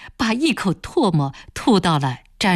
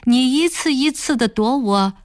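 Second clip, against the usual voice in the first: mocking, leering boss, rising high on the jeers; taunting village boss; 4 semitones higher than usual. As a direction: sneer at her tears and rub it in. Boss taunts the crying woman. (嘲弄的村霸腔调)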